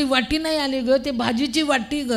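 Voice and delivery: lightly voiced insistent mother-in-law; nagging mother-in-law.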